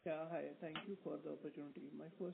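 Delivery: faint, far from the mic; speaking too far from the microphone; barely audible. Real, not acted. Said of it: "your voice is, uh, very low".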